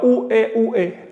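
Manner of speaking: u, e spelled out as separate vowels; four syllables. Shown as a demonstration. Teacher showing the wrong four-syllable reading. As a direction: break it into vowel sounds u, e. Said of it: "no es cuatro sílabas".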